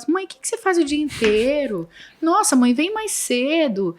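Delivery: a hint of a child pleading for mom to come home; imitating the kids. Children complaining mother works away.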